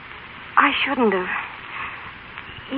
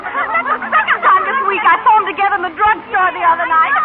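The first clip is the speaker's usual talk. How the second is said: higher, giggling gossip; laughing gossip; 8 semitones higher, 3 dB louder than usual. Acted. Mill worker gossiping about Stella and Stephen, giggling. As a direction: titter while spreading the news.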